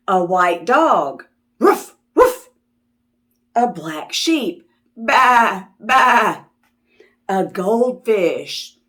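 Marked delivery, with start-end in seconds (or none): 1.6-2.5 high playful yip; puppy bark. Pretend. Dog sound for children. 4.9-6.4 sheep bleat. Pretend. Sheep sound for children.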